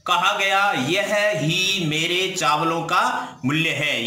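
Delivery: slow, measured phrase-by-phrase reading; deliberate dictation pace; translation read-out. Shown as a demonstration. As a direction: read it out slowly for students to follow. Reads out the full translation.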